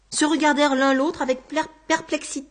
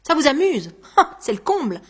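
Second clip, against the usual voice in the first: louder, indignant scoff; 3 semitones higher, 5 dB louder than usual. Acted. Exasperated man to someone who finds it amusing, indignant. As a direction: scoff in outraged disbelief. Acted quarrel, indignant at being mocked.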